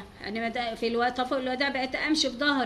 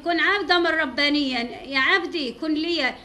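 solemn divine quote; 3 semitones higher, 6 dB louder, slower than usual. Retold or imitated. Quoting God's words in a sermon.

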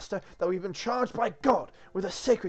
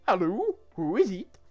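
high, loud, badly faked French accent; attempted French accent; 4 semitones higher, 8 dB louder than usual. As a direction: answer with a shaky attempt at French. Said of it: "I can't do a French accent".

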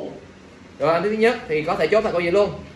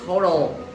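Total as TOH-tl, falling away; first-syllable stress. Shown as a demonstration. Teacher shows class the stress, first-syllable stress. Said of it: "Rồi cho cái thứ nhất".

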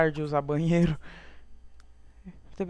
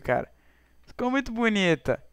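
ordinary talk

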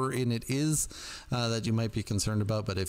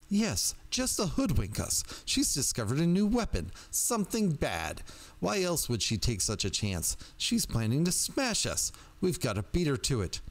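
anxious agitated voice; 5 semitones higher than usual. Acted. Agitated caller fears rival witch.

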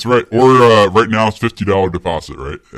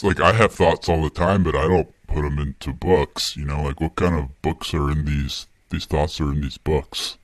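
a famous soul singer's voice. Real, not acted. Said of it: "or Barry White".

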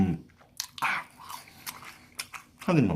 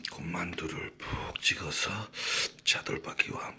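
whispering. Acted. Whispered food narration.

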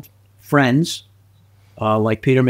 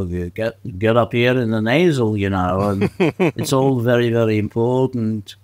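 put-on Liverpudlian accent.

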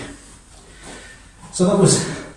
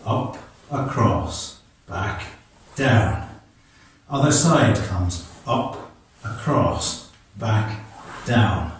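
slow demonstration; 2 semitones lower, slower than usual. Shown as a demonstration. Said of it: "nice and slow".

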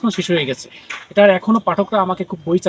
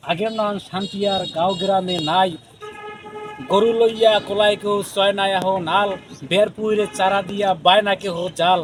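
poem recitation. Acted. Poet reciting a second Barisal village poem, declaiming.

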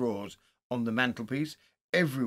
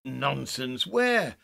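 sharp demand; 5 dB louder, much slower than usual. A narrator's reading. Friend challenging Haldane in the dark, sharp and alarmed. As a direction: dismiss it, then demand loudly.

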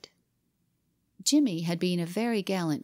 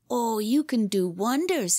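higher, mildly derisive jeer; mock laughing; 5 semitones higher, 4 dB louder than usual. A narrator's reading. Boy climbs back up against his rival, mocking amusement. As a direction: scoff with a touch of amusement, no actual laugh. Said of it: "he said, laughing".

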